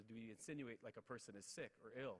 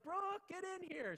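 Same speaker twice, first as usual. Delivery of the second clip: high, loud, slow retold call across the house; yelling for his wife; 6 dB louder, much slower than usual. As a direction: call out to the other room, stretched. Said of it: "I yelled for her mom".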